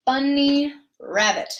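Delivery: teacher demonstrating syllables; slow syllables. Shown as a demonstration. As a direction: say it carefully. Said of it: "a bunny rabbit is what we're going to say".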